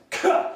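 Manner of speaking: sharp high "Kuh!" of a heaving dog; dog retching noise. Retold or imitated. Imitating the dog retching the corn cob, a sharp high gag. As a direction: mimic the dog's final retch.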